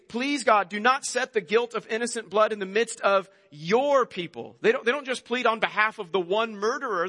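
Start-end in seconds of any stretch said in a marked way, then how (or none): 0.1-4.6 pleading prayer. Acted. Preacher voicing the people pleading with God, mild plea. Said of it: "They, they, they say".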